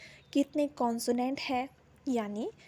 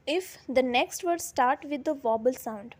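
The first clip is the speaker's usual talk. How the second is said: slow dictation; much slower than usual. Shown as a demonstration. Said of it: "teacher dictating the rule slowly".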